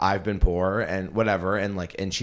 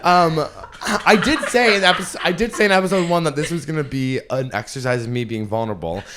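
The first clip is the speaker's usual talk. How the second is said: tearful; 9 semitones higher, 9 dB louder than usual. Real, not acted. Still tearful, continuing story.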